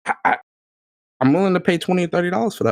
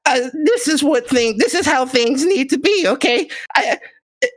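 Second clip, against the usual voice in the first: higher, smarmy politician pitch; gaming politician voice; 3 semitones higher than usual. Pretend. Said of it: "Let me put my gaming politician voice on".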